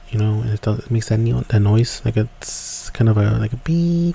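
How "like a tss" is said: steam hiss. Retold or imitated. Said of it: "when a pot steams".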